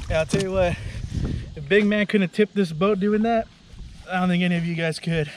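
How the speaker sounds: panting after climbing back aboard; winded, breathing heavily between words. Real, not acted. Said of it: "hashtag heavy breathing".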